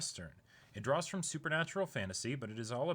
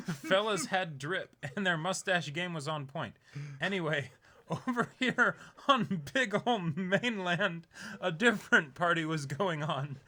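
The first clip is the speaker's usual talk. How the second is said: jokey storyteller voice, a bit louder; playful mock history; 5 semitones higher, 4 dB louder than usual. Host jokes to co-host about history, playfully. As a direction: ham up the history lesson for laughs.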